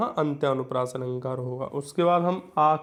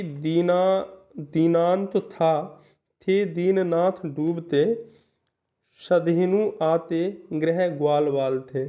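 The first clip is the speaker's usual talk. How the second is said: slow, measured verse reading; slow classroom recital of a poem; poem recitation; slower than usual. Shown as a demonstration. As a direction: recite the couplet line by line. Reads a poem example slowly.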